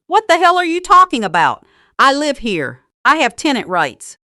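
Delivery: loud, high outraged shout. Acted. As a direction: bark it back in outrage. Son-in-law outraged shouting back.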